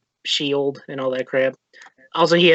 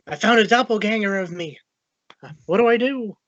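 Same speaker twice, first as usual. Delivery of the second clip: higher-pitched mock panic; freaking out; 6 semitones higher than usual. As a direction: act out a mild freak-out. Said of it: "freaking out".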